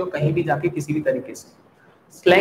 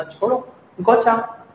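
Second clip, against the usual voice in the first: गोचा drawn out high and slow; casual slang; 6 semitones higher, much slower than usual. Shown as a demonstration. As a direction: toss off गोचा slowly and pitched up. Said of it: "इतना लंबा चौड़ा नहीं बोलना".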